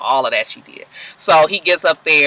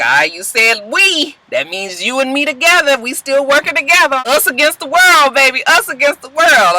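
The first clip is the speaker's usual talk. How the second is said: mock smooth talk; 9 semitones higher, 3 dB louder than usual. Lucius sweet-talking Cookie.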